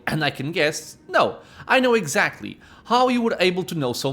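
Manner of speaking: a hint of a commanding villain; lightly voiced scheming captor. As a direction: read the captor's lines with measured theatrical emphasis. Voices a game character's dialogue.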